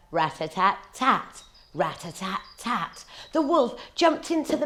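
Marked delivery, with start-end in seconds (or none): none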